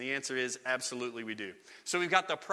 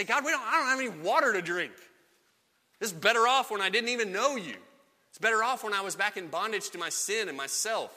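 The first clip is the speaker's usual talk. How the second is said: high, louder whining plea to God; petulant grumble, pitched up; whiny complaint; 5 semitones higher, 3 dB louder than usual. Acted. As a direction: moan it like a sulking grumbler. Congregation voiced complaining to God.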